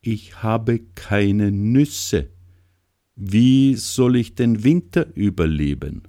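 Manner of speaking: high, slow trembling plea. Acted. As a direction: let the voice tremble, pleading. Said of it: "mit zitternder Stimme".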